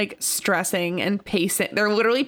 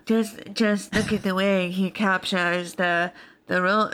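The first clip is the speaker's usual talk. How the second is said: mock pretentious actor. Mocking a pretentious actor quote.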